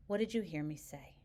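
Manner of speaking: calm, even question, no heat; steady, unruffled delivery. Shown as a demonstration. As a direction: ask it evenly, without taking the bait. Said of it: "Notice the delivery with which I presented that. Calmly, evenly".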